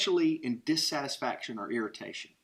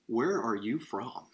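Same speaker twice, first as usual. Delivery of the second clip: slow, lower, mock-incredulous question; incredulous New Yorker; 5 semitones lower, slower than usual. New Yorker asking the Southern visitor where he's from, mock incredulous. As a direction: imitate a baffled questioner, drawn out. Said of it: "some New Yorker is incredulously asking me".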